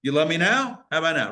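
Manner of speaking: a light mock ad voice, pushing each time; half-hearted imitation of the Verizon guy testing love; testing God like the ad. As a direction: poke and test like the old phone ad. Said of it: "Like the old Verizon commercial".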